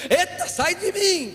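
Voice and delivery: preacher teasing a grumpy churchgoer, mock fright; mock shudder. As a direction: pretend to recoil from a scowling face. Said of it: "que a gente diz pra uns aí".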